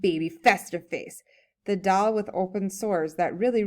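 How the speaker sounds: lively, emphatic story reading; humorous read-aloud. A narrator's reading. Reading a comic essay to a class, animated read-aloud. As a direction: read it aloud with punchy key words.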